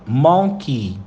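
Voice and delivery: monkey with a slight tongue curl, natural; English monkey with curled tongue. Shown as a demonstration. Teacher demonstrating the curl for students, relaxed. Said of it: "Você dá uma dobradinha na língua".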